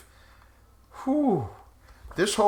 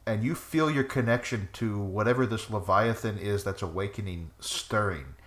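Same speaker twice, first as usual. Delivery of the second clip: game master narration; 2 semitones lower than usual. Acted. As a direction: draw them into the mood. GM sets the scene.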